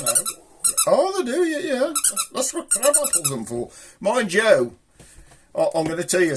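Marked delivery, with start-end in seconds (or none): 0.9-3.7 pitched way up for the puppet; squeaky puppet reply; high squeaky voice. Acted. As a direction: chirp it like the puppet agreeing.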